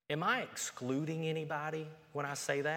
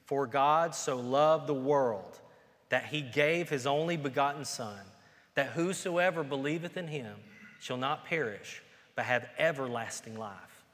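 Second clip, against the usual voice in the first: reciting together; 3 dB louder than usual. Shown as a demonstration. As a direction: lead the church through it, word by word. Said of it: "Let's say it together".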